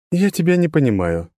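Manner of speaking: high, even, detached voice; monotone girl. A narrator's reading. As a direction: keep it level and distant. Ан speaks.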